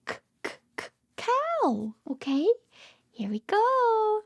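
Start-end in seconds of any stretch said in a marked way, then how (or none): 0.1-1.9 soft separate k clicks, then "cow"; sound-by-sound demo. Shown as a demonstration. Teacher showing little ones the back-of-mouth sound, "k, k, k" then "cow". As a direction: repeat the first sound of "cow" before the word. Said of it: "use the back of our mouth".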